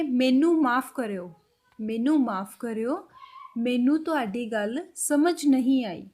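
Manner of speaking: slow, careful Punjabi demo; slow Punjabi example. Shown as a demonstration. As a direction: spell out each Punjabi word slowly. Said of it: "और पंजाबी में बोलेंगे". (धीमे, साफ़ पंजाबी में)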